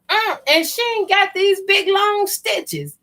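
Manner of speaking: imitating her mother. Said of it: "she checked my stitches and said".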